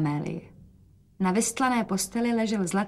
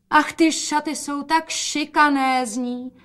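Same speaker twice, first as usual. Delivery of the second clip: higher, slow delighted exclaim; 7 semitones higher, slower than usual. A narrator's reading. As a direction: gush over the dress. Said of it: "zvolala matka". (matka nadšeně zvolá)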